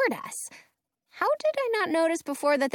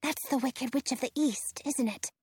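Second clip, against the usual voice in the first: whispering; 6 dB quieter than usual. Acted. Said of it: "Penny whispers at me".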